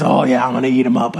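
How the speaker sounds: low, fast mock jock boast; pumped-up players. Player answering the pep talk, mock pumped-up, low and fast. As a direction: play an over-hyped player. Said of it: "you all get all pumped".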